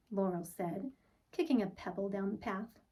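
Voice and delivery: put-on gentle read-aloud for children; storybook narration. A narrator's reading. Teacher reading a picture book to the class, storybook voice. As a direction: tell it like bedtime story time.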